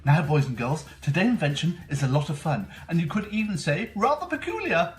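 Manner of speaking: put-on bright, eager kids show host; host a kids science show; overbright kids party host. Kids show host persona Mister Peculiar.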